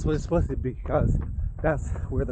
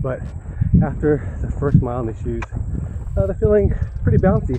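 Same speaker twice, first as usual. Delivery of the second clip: talking mid-run, louder over the stride; while running; 7 dB louder than usual. Real, not acted. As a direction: speak while jogging on a run. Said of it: "after mile one in the shoe".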